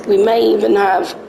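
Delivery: slightly croaky morning voice; a bit of a croak in the throat. Real, not acted. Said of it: "got a croaky voice this morning".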